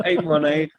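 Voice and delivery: repeating it through a laugh; chuckling the numbers. Real, not acted.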